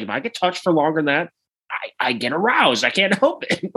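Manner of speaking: high, stammering excuse; mock pleading. Larry explaining his problem to Leon, mock pleading. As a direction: imitate an embarrassed confession, pitch up, laughing by the end.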